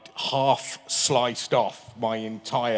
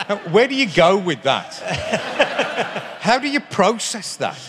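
higher, louder, laughing through the words; real laughter over a question; 9 semitones higher, 5 dB louder than usual. Real, not acted. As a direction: still cracking up as he asks. Still laughing at the tweet.

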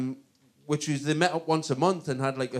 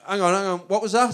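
comic's mock double-take; 5 semitones higher, faster than usual. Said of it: "he would go".

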